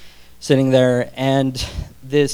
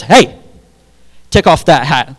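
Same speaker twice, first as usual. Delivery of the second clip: mocking taunt; 3 dB louder than usual. Student taunts teacher about hairline.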